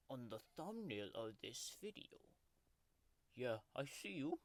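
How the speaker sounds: grumpy tiger mascot growling through a fake ASMR video; sulky tiger taking over the channel; tiger character voice. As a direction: play a cranky cartoon tiger throughout. Tiger character Oscar hosts the video.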